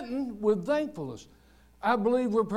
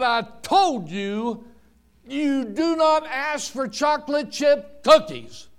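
lightly voiced stern mother, measured; a touch of exasperated scolding; 5 semitones higher, 4 dB louder than usual. Mother repeating her rule to her little boy, mildly scolding.

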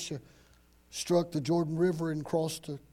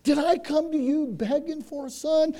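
acted hurt mother, pitched higher; hurt, mildly angry; 7 semitones higher than usual. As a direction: plead with a touch of angry reproach. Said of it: "a little bit of anger and hurt in her voice".

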